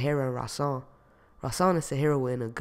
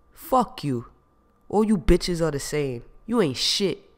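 mock shout; 3 semitones higher, 4 dB louder, slower than usual. Jamal shouting at Gina on the phone, angry. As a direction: throw it at her as an insult. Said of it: "shouted Jamal".

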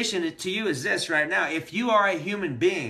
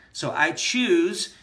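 empowered; 3 semitones higher, 4 dB louder, much slower than usual. Real, not acted. Trainer showing students the shift from want to choose, voice going up, empowered. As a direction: voice lifting as the words land. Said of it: "my voice went up".

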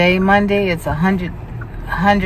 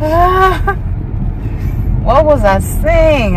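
flustered; 10 semitones higher, 3 dB louder, slower than usual. Real, not acted. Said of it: "I got nervous".

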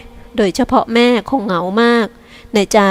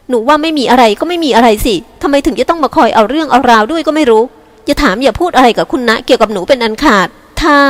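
higher, strained insistence rising to a complaint; tense and annoyed; 3 semitones higher than usual. Acted. Younger sister telling Jin to stay out of her affairs, tense and irritated. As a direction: warn her off, exasperated. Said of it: "จริกาพูดเสียงเครียด".

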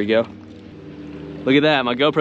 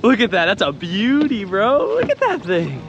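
excited; 9 semitones higher, slower than usual. Real, not acted. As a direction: shout in triumph. Celebrating the tarpon catch.

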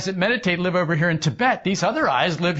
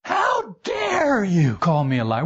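slow, high, shouted protest; a hammed-up cry of wounded virtue; indignant outrage; 4 semitones higher, slower than usual. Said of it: "We're indignant".

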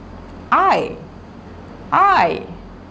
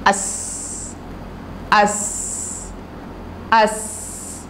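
whispered drill; 7 dB quieter, much slower than usual. Shown as a demonstration. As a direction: whisper us, softer. Teacher drills the word us. (फुसफुसाकर us)

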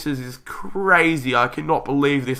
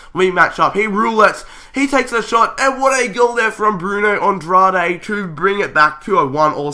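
brisk football commentator call; live play-by-play; 2 semitones higher than usual. Acted. YouTuber narrating his own FIFA match as commentary.

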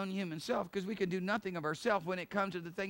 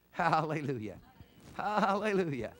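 louder, ringing hallelujah; praise shout; 5 dB louder than usual. Real, not acted. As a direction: lift the praise up strong. Preacher's acclamation.

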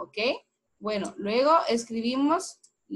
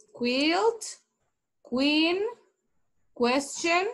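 raised model for repeating; 4 semitones higher, much slower than usual. Shown as a demonstration. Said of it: "Repita conmigo".

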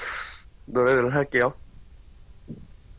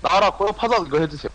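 Psyduck voice; 5 semitones higher than usual. Shown as a demonstration. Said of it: "고라파덕 해줘요".

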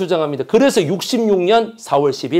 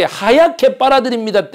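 하얗게 빨아들입니다 pitched higher like a jingle; ad slogan read; 6 semitones higher than usual. Shown as a demonstration. Pitching the detergent's ad line, read out higher. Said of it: "처음에 그래서 어떻게".

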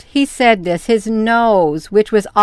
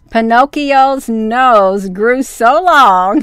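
laughing while reading. Real, not acted. Reader cracking up mid-story.

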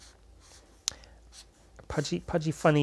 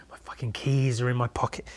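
whisper; 2 semitones lower, 4 dB quieter than usual. Real, not acted. Frustrated muttering about keys.

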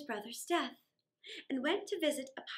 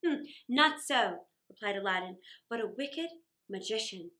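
calm Aladdin; 4 semitones lower than usual. Acted. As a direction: reassure her calmly. Aladdin calmly explains.

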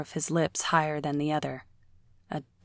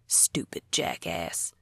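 slow whispered curse under breath; whispered grumble; 6 dB quieter, slower than usual. Acted. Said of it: "grumbling things under his breath".

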